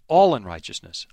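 "All unrighteousness" stated flatly as settled fact, falling; firm statement. Shown as a demonstration. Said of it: "Not, not so questioning".

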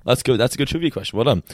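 mildly patronising pat on the back; condescending praise. Real, not acted. Co-host praising a trivia question, mildly condescending. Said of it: "So condescending".

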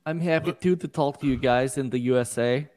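imitating a put-on Slavic accent; mock Slavic accent. Co-host parroting the comedian's accent, mock Slavic. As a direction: echo the bad Slavic accent mockingly. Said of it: "your Slavic accent you paid all this money for".

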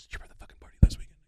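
quick hushed whisper, pressing; fast whisper. Retold or imitated. Agent pressing the comic about the party in a whisper. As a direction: rush it out under the breath.

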